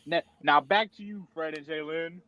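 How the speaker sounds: lightly mocked anchor handoff; newscaster voice. Weatherman handing back to his co-hosts, mock newscaster voice. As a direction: hand back to the studio like a TV reporter. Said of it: "I was doing a newscaster voice".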